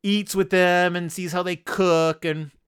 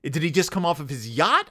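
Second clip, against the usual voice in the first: normal talking voice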